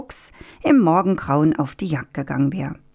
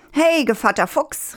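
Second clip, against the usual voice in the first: high-pitched hail; calling out; 9 semitones higher than usual. A narrator's reading. Rooster carried off by the fox hails him, calling out. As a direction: call out to get his attention, pitch lifted. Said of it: "rief der Hahn".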